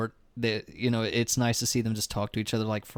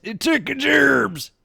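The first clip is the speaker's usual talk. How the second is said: squeaky silly voice; 12 semitones higher, 6 dB louder, slower than usual. Pretend. Jokey imitation, very high.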